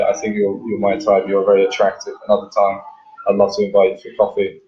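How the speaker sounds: steady, self-assured invitation; with conviction. Shown as a demonstration. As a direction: state it plainly, no pleading. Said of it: "wanna lead with conviction".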